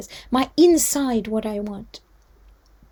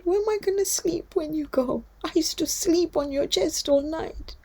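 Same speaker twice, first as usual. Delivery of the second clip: put-on pleading little girl; 5 semitones higher than usual. Sakina asks where she'll sleep.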